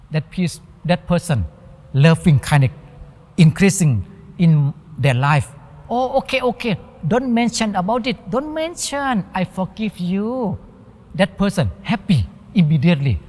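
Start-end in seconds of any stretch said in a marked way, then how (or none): 5.9-10.6 acting out the friend who forgives, light and high; forgiving friend. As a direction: brush it off kindly. Acted friend granting forgiveness.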